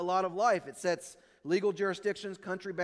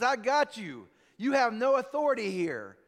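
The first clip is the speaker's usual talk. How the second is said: put-on louder, a touch smug, a half-hearted drunk voice; mock drunk gloating; 4 semitones higher, 4 dB louder than usual. Drunk driver taunting the trooper, louder with mock gloating. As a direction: crow it like a drunk who thinks he's won. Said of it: "And he says".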